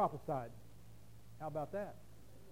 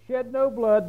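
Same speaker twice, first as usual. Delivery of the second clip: louder "Shed no blood"; commanding quote; 3 semitones higher, 10 dB louder, slower than usual. Acted. Preacher voicing Reuben's order to brothers, louder. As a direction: order them firmly.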